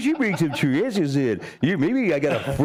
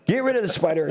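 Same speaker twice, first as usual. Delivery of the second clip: mild mock yell, pitched up; retold scream; 5 semitones higher than usual. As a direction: imitate your own panicked yelling without real volume. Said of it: "I'm screaming, yelling".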